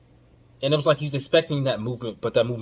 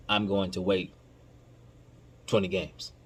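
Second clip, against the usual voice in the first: quiet self-quote; 5 semitones lower, 8 dB quieter than usual. Shown as a demonstration. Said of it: "continue to say".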